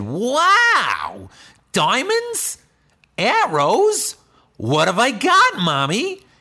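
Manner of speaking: put-on high, loud, wide-eyed kid voice; amazed little kid. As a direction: squeal it like an amazed little child. Little backpack quoting himself, amazed.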